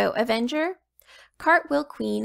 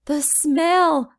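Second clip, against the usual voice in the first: put-on choking little boy; 6 semitones higher, 6 dB louder than usual.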